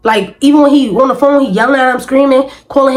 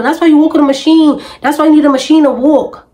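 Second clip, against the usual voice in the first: higher, mildly raised mock yell; 5 semitones higher than usual. Mother mimics the woman's taunts on the phone in a mild mock yell. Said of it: "That's why you was on the phone yelling".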